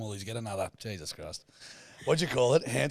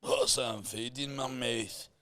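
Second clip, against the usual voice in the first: Fat Bastard voice; 3 semitones higher than usual. Retold or imitated. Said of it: "He now sounds like a Fat Bastard".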